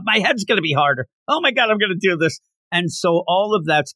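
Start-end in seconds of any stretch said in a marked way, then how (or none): 0.0-2.4 high, fast boastful rant; yelling, chest-beating. Retold or imitated. Inosuke boasting to Tanjiro, fast high rant. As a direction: brag at full speed like a wild boy. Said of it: "beating his chest and yelling things".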